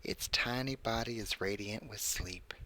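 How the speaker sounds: creepy story read in a put-on voice; measured narration with swooping pitch and pauses; Burt's Bees. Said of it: "I'm reading this in my Burt's Bees voice".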